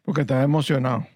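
fast, run-together mumble; real hurried, indistinct answer; unclear speech. Real, not acted. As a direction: rush the words into a blur. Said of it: "Habla claro".

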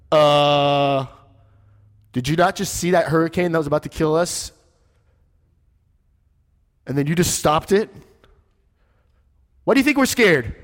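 incredulous, mocking the question; exasperated disciples. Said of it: "they're probably like".

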